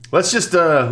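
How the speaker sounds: usual speaking voice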